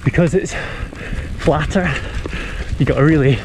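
breathless, pushing hard; panting while working hard; heavy breathing. Real, not acted. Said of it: "I am blowing".

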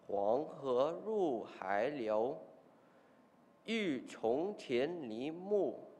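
slow, falling classical recitation; poem recitation. Acted. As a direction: recite the poem slowly and solemnly.

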